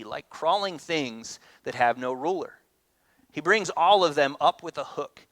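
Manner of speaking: measured reading of the prophet's lament; scripture reading. Acted. Pastor reading Habakkuk's lament to the congregation, solemn.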